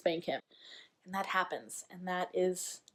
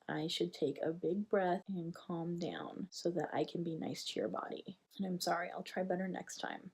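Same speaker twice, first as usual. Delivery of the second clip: gentle apology; 3 dB quieter than usual. Shown as a demonstration. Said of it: "I did say something very similar".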